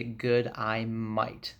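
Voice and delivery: "Good, I might" drawn out slowly, day as "eye"; slow Australian vowels on "Good, I might"; Australian pronunciation. Shown as a demonstration. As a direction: sound out "Good, I might" slowly for Aussie g'day mate. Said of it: "When you say it, you say".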